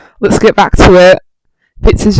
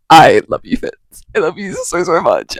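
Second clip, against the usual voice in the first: mock tender confession; 3 semitones lower than usual. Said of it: "that's Fool saying".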